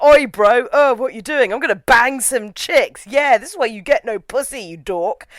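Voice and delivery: lightly mocked student bro; student man voice. Viewer mimicking the roommates, a hint of student man voice. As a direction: put on a slight lad-talk voice. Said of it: "talk in student man voice".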